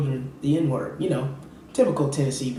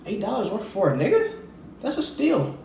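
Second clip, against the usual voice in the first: mock Southern bigot; 8 semitones higher than usual. Mocking Southern white people.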